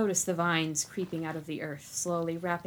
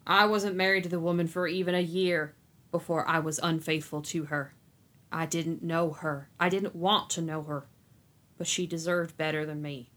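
slow and stern. Acted. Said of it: "he spoke slowly and sternly".

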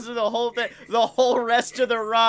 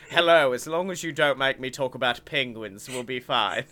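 Benedict Cumberbatch impression; 5 semitones lower than usual. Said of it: "Benedict Cumberbatch comes in and he's just like".

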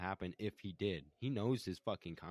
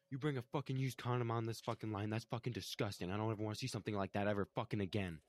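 higher, mildly heated retold tirade; retold pissed-off rant; 3 semitones higher, faster than usual. David berating a coworker on the line, pissed off. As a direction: tear into them, rushing at the end. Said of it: "'cause he's fucking pissed".

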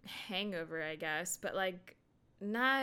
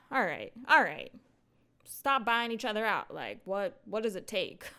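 louder, exasperated retort; playfully exasperated outburst; mock exasperation; 5 dB louder than usual. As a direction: act fed up with their squabbling. Mock exasperation at teams' name changes.

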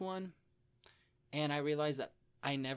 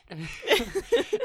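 loud laugh; 10 semitones higher, 11 dB louder than usual. Real, not acted. Big laugh.

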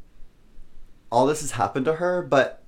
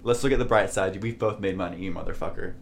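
wry bright-siding; 6 semitones lower than usual. Retold or imitated. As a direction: put on a wry look-on-the-bright-side, sinking into the insult. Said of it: "Kind of like".

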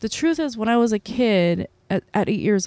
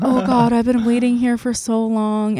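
higher and louder, fed up; exasperated groan; 4 semitones higher, 4 dB louder than usual. Retold or imitated. Mom at the airport, fed up with waiting, exasperated and raised. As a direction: let the frustration burst out, raised and loud.

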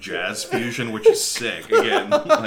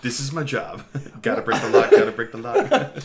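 mock panic; 3 semitones higher than usual. Mocking Victoria's panic.

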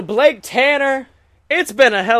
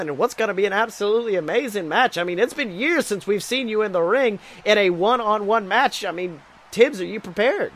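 wrestling announcer. Acted. Announcer closes the show.

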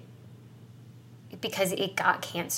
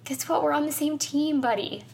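higher-pitched, tearful plea to a friend; body reaching out; 7 semitones higher than usual. Acted. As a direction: speak as the body offering an alliance. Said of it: "reaching its arms out to me".

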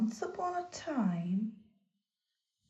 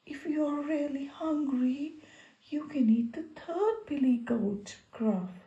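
pleading goat voice; 3 semitones higher than usual. Acted. Goat begs troll.

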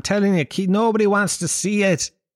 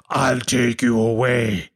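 low, slow, threatening growl; playing the scary man sent to frighten a child; menacing bogeyman; 4 semitones lower, slower than usual. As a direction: loom over the kid, slow and low. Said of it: "And then I go".

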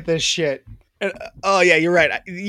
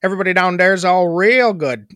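thick mock Chicago accent; hammed-up Midwestern Chicago talk. Shown as a demonstration. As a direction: play a Bears fan from Chicago.

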